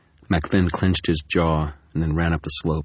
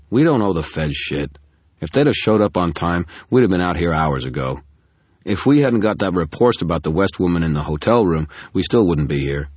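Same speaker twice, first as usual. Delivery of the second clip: louder, grumbling irritated protest; irritated complaint; 6 dB louder than usual. Acted. Carmichael complaining to Murphy about the feds, irritated and louder. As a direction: gripe at your boss, fed up.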